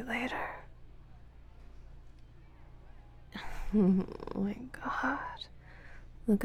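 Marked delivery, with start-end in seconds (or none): 2.6-3.7 short breathy chuckle; quiet, teasing huff of laughter; taunting chuckle. Acted. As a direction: laugh softly under the breath. Taunting partner in audio roleplay.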